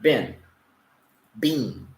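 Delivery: Bin short, then bean with a long stretched ee; teacher modelling bin versus bean; minimal pair drill. Shown as a demonstration. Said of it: "the E is a longer sound".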